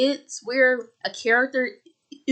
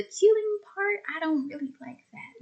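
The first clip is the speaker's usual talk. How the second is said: squeaky objection; 7 semitones higher, 5 dB quieter than usual. Retold or imitated. Self quoted objecting to killing.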